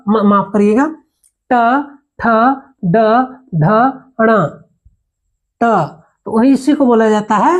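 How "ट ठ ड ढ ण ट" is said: ट ठ ड ढ ण said one by one, tongue tip curled back; retroflex sounds demo. Shown as a demonstration. Teacher drills the class on retroflex letters, spaced and clear. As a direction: spell out ट ठ ड ढ ण with pauses. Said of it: "पढ़ के एक बार देख लीजिए".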